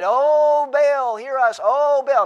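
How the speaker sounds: drawn-out, high mock wail to a deaf god; wailing and hollering. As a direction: imitate desperate worshippers, loud and high. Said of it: "wailing and crying and screaming and hollering".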